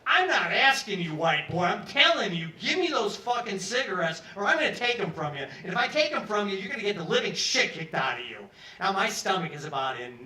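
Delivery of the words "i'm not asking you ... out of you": enraged. Retold or imitated. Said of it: "now he looks enraged".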